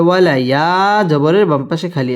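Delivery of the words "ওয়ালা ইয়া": rounded w, then stretched ইয়া; one-alif lengthening. Shown as a demonstration. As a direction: hold the vowel of ইয়া for one extra beat. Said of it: "এক আলিফ টেনে পড়তে হবে".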